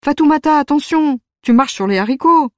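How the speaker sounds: grandmother's voice. Retold or imitated. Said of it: "J'entends presque sa voix".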